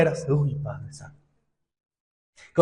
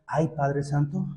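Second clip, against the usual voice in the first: mock dismay; 6 semitones lower, 9 dB quieter, slower than usual. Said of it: "ahí es donde nosotros decimos".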